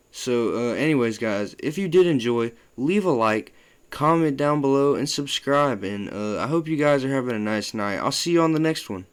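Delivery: closing his video to viewers, upbeat outro; youtuber outro. Acted. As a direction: pitch the like and subscribe. Vlog outro sign-off.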